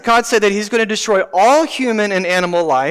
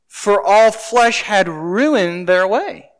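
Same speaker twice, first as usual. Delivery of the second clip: very slow, measured scripture line; slow rereading; much slower than usual. Acted. Preacher rereading the verse to the congregation, very slow. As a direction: draw the verse out slowly. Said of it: "let's reread a couple of these verses".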